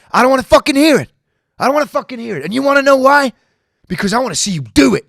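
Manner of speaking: hammed-up tough guy yelling his lesson; mock gym bro rant. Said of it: "it'll be like".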